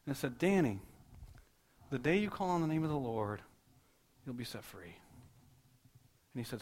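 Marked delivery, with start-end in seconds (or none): 0.4-5.0 sweet little voice. Retold or imitated. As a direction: imitate a sweet voice calling, then let it fade. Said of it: "this sweet little voice".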